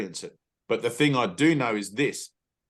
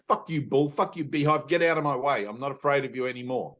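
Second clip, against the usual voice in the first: defiant challenge; 3 semitones higher than usual. Retold or imitated. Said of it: "you're saying".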